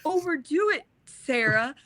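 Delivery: a light imitation of a friend's calm warning; calm caring advice. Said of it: "he very calmly, without the temper".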